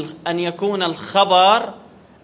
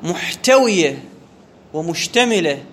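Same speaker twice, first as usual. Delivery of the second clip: slow dictation; 3 semitones lower, slower than usual. Shown as a demonstration. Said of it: "teacher dictating slowly".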